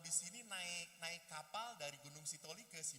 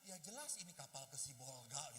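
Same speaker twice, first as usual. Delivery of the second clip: low, unimpressed answer; dry retort; 5 semitones lower than usual. Acted. Introvert answering chatty seatmate, low dry retort. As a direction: state the obvious, voice dropped low.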